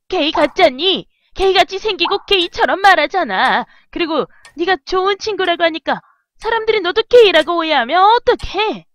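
hammed-up worried parent; anxious nagging mother. Acted worried mother in game dialogue.

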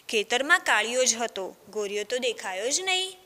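put-on storytelling voice for children, lively; story narration. A narrator's reading. Teacher reading a village tale to children, storytelling. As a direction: read the tale aloud to a class.

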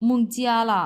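মংজিয়ালা with মং falling fourth tone, জিয়া flat; Chinese tones. Shown as a demonstration. Teacher showing how to pronounce মংজিয়ালা. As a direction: drop মং sharply, keep জিয়া level. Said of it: "এইভাবে উচ্চারণ করি".

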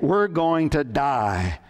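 drawn-out, mildly panicked wail; mild acted panic. Panicked castaway to his companion, mildly panicked. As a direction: wail slowly with a touch of panic. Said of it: "One man was in an absolute panic".

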